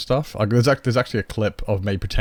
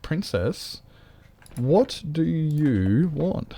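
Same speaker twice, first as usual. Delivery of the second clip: cooing pet voice; 6 semitones higher, much slower than usual. Real, not acted. Cooing at her cat.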